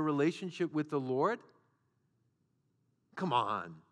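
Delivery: scoffing, sneering taunt; mocking Satan. Preacher voicing Satan's scoff at believers, mocking. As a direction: sneer it like the accuser. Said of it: "Satan will come along and say".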